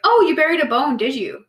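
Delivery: teasing partner. Retold or imitated.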